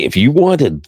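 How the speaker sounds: a hint of radio announcer salesmanship. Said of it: "I gotta do the radio voice and say".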